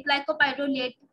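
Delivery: glycopyrrolate drawn out slowly, syllable by syllable; slow spelled-out drug name. Shown as a demonstration. Teacher to pharmacology class, slowly sounding out glycopyrrolate. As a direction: say glycopyrrolate slowly so students catch each syllable. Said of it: "ये आप कर सकते हैं".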